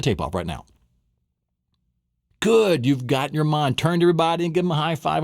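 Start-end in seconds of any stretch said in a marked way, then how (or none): 2.4-5.2 excited. Real, not acted. Praising students enthusiastically.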